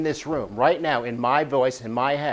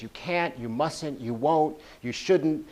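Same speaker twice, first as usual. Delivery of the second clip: inner critic voice; 2 semitones higher, slower than usual. Retold or imitated. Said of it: "that incessant voice that says".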